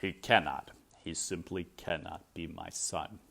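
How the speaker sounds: a touch of hopeless disbelief; mild despair. Acted. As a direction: Lester lamenting his son, low and despairing. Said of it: "in despair".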